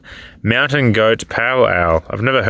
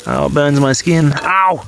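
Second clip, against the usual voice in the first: burnt fingertips; 5 semitones higher than usual. Real, not acted. Fishing the rock out of the fire.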